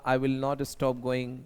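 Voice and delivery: very slow, each word laid out for the class; slow model sentence. Shown as a demonstration. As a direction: dictate it slowly like a teacher. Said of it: "मैं जाना बंद नहीं करूंगा". (बहुत धीरे, साफ़-साफ़)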